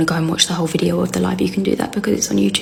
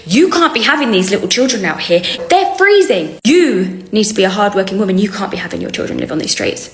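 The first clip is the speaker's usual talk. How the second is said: fake Arabic accent. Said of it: "she says".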